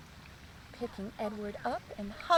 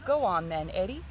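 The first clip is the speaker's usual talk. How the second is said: beaming; 6 semitones lower, 5 dB louder than usual. A narrator's reading. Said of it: "Father beamed".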